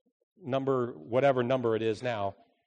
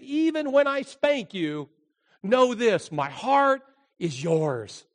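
voice of God; 12 semitones higher, 10 dB louder than usual. Acted. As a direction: speak as a loving God to his people. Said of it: "Because God says".

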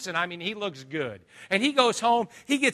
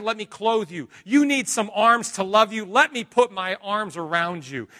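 loud, high, impassioned plea; fervent preaching; 5 semitones higher, 7 dB louder than usual. Acted. Preacher crying out Jesus's loving words to the sick. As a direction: preach it out at full force, pleading with love.

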